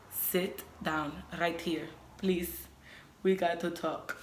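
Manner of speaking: slow, measured, mildly serious delivery; lightly acted "we need to talk" moment, words spaced out; grave request. Retells solemnly preparing partner for news.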